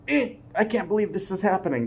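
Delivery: light shrugging eh; mock shrug. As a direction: shrug it off with a smile. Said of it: "shrug and smile".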